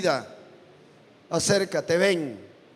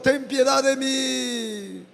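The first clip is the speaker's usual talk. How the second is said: \"ten piedad de mí\" spoken very slowly; slow spoken plea; 6 semitones higher, much slower than usual. Shown as a demonstration. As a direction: stretch out the plea. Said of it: "Dile a Él". (súplica hablada y muy lenta)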